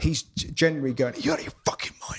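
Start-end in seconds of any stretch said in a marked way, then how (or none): 1.2-2.2 muttered dad quote. Retold or imitated. Dad's blunt reaction, quoted.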